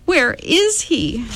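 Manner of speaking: high, slow demanding voice. A narrator's reading. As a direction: Meg demands her brother back, high and insistent. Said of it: "she demanded of the man".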